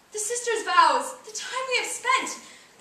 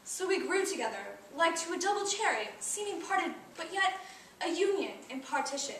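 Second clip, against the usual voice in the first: wistful remembrance; 6 semitones lower, 3 dB quieter than usual. Acted. Recalling lost friendship in monologue.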